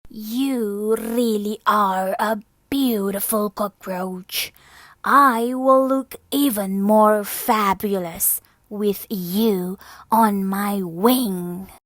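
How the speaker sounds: loud, boastful rooster voice; vain rooster. Acted. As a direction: puff up and brag to her.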